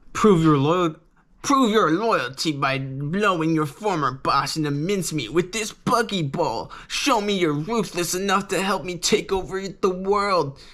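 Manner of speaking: a hint of a sly pirate tempting her; villain's demand. Villain voiced in retold story.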